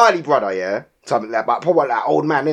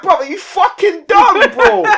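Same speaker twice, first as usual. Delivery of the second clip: much higher and louder, slow furious telling-off; yelling at the driver who parked on the crossing; retold angry yell; 6 dB louder, slower than usual. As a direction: blast him, drawing each word out.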